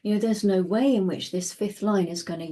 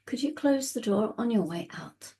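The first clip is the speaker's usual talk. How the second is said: calm reply; 3 dB quieter than usual. Retold or imitated. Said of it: "you look at them really calmly and you say".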